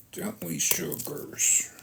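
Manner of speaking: slow breathy coo to the pets; soft whisper. Real, not acted. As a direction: whisper it tenderly, slowly. Coos to pets after plain question.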